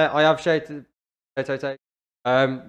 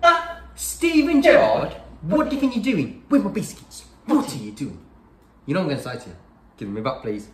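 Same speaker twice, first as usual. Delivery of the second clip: fake calm angry parent; faster than usual. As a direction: hold it calm, then lose it. Skit, biscuits stolen by Gerrard.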